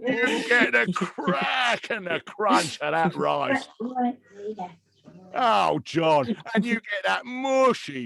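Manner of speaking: slow, drooling food-judge voice; Greg Wallace impression. Comedian as MasterChef judge praising cooking, hammed-up relish. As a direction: linger over every texture like a TV judge. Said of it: "Greg Wallace from MasterChef".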